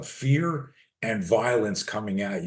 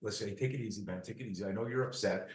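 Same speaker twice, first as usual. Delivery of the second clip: much softer, soothing de-escalation; a bystander soothing an upset man in a bar; soft calming voice; 13 dB quieter, faster than usual. Shown as a demonstration. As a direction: talk him down gently and quietly. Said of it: "you're like".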